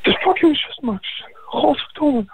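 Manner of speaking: reminding his friend it is his sister, high and furious. Real, not acted. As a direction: spit out the outrage.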